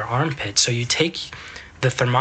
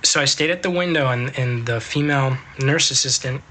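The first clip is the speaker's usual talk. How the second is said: talking between sips of soda; drinking cider. Real, not acted. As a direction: speak while drinking a fizzy drink, near a burp. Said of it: "I'm drinking Mitsuya cider, and it's, it's making me burp".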